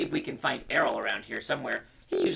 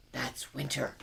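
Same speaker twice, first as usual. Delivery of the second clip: a soft hushed whisper; 7 dB quieter, slower than usual. Acted. Mother whispering to her children by the fire, hushed. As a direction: breathe it gently to the children. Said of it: "whispered Mom".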